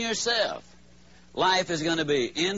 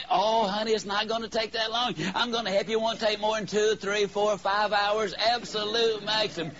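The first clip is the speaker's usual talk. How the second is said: lightly voiced wife making it sound easy; coaxing wife; 2 semitones higher than usual. Wife cajoling husband.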